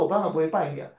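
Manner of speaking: 我当然不会拜你啊 said gravely and evenly, stress on 当; earnest, steady 当然 on 我当然不会拜你啊; serious. Shown as a demonstration. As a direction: say 我当然不会拜你啊 firmly, like a solemn promise. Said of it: "我很严肃跟他讲说".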